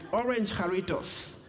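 "Orange Jarritos" with a light South African lilt; mild South African accent on "Orange Jarritos". Retold or imitated. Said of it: "with my South African accent".

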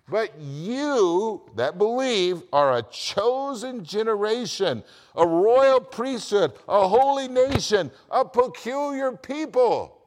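high, loud and drawn out, phrase by phrase; emphatic preaching. Retold or imitated. Preacher proclaiming verse nine to believers, emphatic. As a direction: proclaim it, stretching each title out loud. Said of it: "and it's emphatic".

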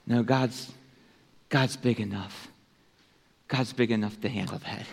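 soft, low, halting comfort; gentle reassurance. Retold or imitated. Preacher answering a congregant's guilt, quiet reassurance. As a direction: reassure quietly, with pauses between phrases.

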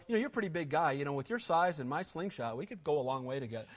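low, quiet, chummy pleading; a hushed, matey suck-up; mock buddy-buddy David. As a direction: play David sucking up to Goliath, hushed. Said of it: "ever going down to Goliath going".

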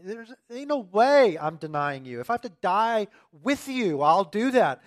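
a touch of brash disciple bravado; mildly mock the disciples' boast. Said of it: "not just Peter saying".

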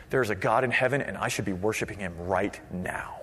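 hushed, low awed thought; thinking to oneself. Acted. Worshiper entering a cathedral, hushed inner thought. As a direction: sink to a low, soft murmur. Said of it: "thinking to yourself".

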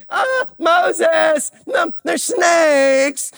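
high, drawn-out wailing cry; mock panic. People crying out to Moses about snakes, mock panic. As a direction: wail it in hammed-up alarm.

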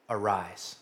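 low, hushed and weighty; solemn command. Retold or imitated. Jesus to the dead young man, solemn and hushed. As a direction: let the word fall softly, with authority.

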